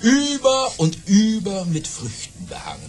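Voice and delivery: secretive whisper. Acted. Baron reveals almond branches.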